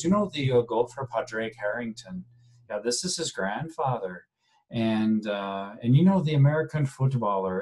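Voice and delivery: put-on light amateur Irish accent, chatty; understated Irish accent impression. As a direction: imitate the proud old Irishman, lightly. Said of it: "my poor attempt at an Irish accent".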